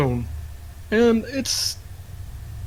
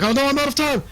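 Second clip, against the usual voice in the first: much higher, alarmed cry; panicked npc; 10 semitones higher, faster than usual. Acted. Fading npc panics as his time runs out, much higher voice. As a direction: gasp it out as time runs away. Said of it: "And he's like".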